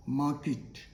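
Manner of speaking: 'market' as mah-kit, short i; correct pronunciation. Shown as a demonstration. Teacher repeats for learners, kit ending. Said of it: "it is market".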